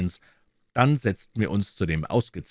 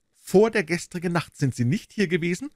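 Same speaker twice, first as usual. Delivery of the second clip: sharp, higher, louder question from the inspector; 11 semitones higher, 4 dB louder than usual. A narrator's reading. Inspector Hopkins pressing the suspect, sharp higher question.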